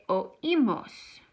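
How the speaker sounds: oímos as o-EE-mos, stress on the í; accented í. Shown as a demonstration. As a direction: keep o and í apart in oímos, hitting the í. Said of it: "need that accent 'cause I wanna say".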